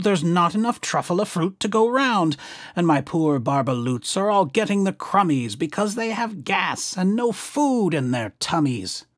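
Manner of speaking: a hint of a cross little creature defending the trees; snapping Lorax. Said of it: "He snapped".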